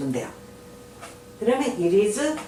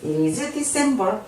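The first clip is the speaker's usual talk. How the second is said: slowly stretched question; slow model reading; much slower than usual. Shown as a demonstration. Teacher to learners, slowly drawn-out question. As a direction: draw out each word for learners. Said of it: "teacher models an answer".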